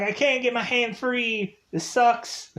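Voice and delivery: high, strained panic; panicked Vince. Retold or imitated. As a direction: whine it out in panic. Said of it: "He's like".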